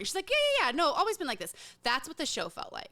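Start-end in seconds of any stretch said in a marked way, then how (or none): 0.3-1.5 much higher, breezy fake British voice like a singer's; mock British accent. Mocking a singer insisting she's always been British, in a mock British accent. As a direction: brush it off in a parody British accent. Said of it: "a singer suddenly showed up with a British accent".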